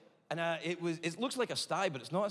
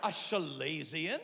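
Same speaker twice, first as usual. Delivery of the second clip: delighted; slower than usual. Retold or imitated. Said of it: "thought it sounded adorable".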